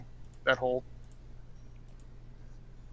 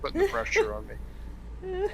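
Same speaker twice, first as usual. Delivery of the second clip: squeaky laughing voice, much higher; slower than usual. Real, not acted. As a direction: laugh the words out.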